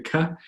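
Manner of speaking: crisp English "ka", forward in the mouth. Shown as a demonstration. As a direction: say "ka" short, with a plain English k. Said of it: "English, it's very ka".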